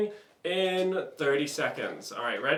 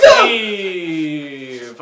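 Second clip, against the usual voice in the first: shout; 12 dB louder than usual. Real, not acted. Host shouts end of scene.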